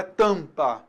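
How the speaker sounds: "tampa" slowly, first vowel clearly nasal. Shown as a demonstration. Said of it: "Olha só a diferença das vogais".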